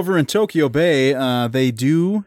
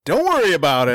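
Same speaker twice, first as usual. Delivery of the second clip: put-on cowboy accent. Submarine captain deflects questions in a cowboy accent. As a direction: brush them off in a cowboy accent. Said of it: "you sound like a cowboy".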